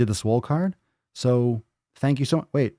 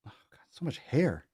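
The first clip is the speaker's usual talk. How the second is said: whispered disgusted aside; whispered, grossed out; 2 semitones higher, 6 dB quieter than usual. Real, not acted. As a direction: breathe it out under your breath. Aside about the cat hair.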